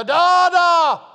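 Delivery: put-on high, loud child's call across the yard; high shouted call of a little boy; child yelling. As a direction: yell it like a toddler calling from the fence. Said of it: "and he'd stand there and he'd yell".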